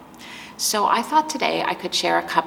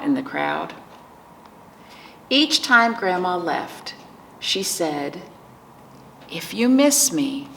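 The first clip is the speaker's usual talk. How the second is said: picture book narration. A narrator's reading. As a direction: read it to preschoolers, lingering on key words. Reads picture book to children.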